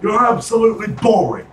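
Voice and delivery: high-pitched mock British put-down; British accent. Co-host telling Americans they're boring, high British accent. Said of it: "I'm gonna be doing that accent".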